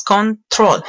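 "control" broken into two syllables, con, trol; split into syllables. Shown as a demonstration. Teacher showing students two syllables, "control" split in two. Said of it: "tiene dos sílabas".

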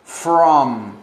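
from punched and held; stress on from. Shown as a demonstration. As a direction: lean hard on from. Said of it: "usamos from".

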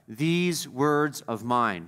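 slow, weighty stress on "These" in "These words of mine."; emphatic quote. Shown as a demonstration. Preacher stressing Jesus' words to the congregation, slow and emphatic on "These". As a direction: lean hard on "These" in "These words of mine.", slowly. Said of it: "Very emphatic there".

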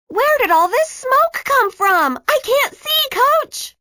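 put-on coughing girl crying out to her coach in alarm; alarmed exclamation. A narrator's reading. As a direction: call out to the coach, panicked and lost. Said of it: "Maya exclaimed".

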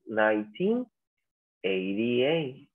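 "Nineteen eighty-eight" split as nineteen, then eighty-eight; year in two pairs. Shown as a demonstration. Teacher shows students the easier way, "Nineteen eighty-eight" in two chunks. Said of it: "De dos en dos lo pronunciamos".

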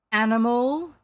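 loud captain's probing question; quizzing captain. A narrator's reading. Captain plays guessing game with stranger, probing. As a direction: press the question with booming weight.

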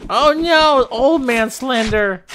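high, loud cry of alarm; scared yell. Real, not acted. Player spotting Slender right behind him, scared yell. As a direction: shriek as the monster shows up.

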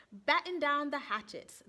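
hearty sea captain call; calling loudly. Acted. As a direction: order the crew to batten down. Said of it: "the Fizz called loudly".

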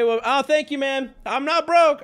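defensive self. Retold or imitated.

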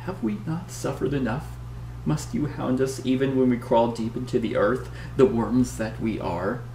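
lightly voiced frail old woman pleading; a hint of a weary old woman; weak old woman. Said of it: "she says weakly".

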